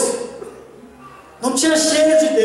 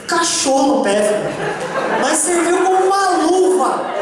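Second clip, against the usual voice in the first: laughing; 3 semitones higher than usual. Real, not acted. Laughing while telling.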